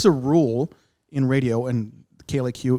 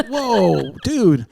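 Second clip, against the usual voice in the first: surprised; 4 semitones higher, 6 dB louder than usual. Retold or imitated. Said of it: "So I was like".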